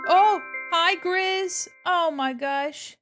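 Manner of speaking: high, loud happy squeal; delighted cute streamer greeting; excited greeting. Real, not acted. Greeting a chat visitor.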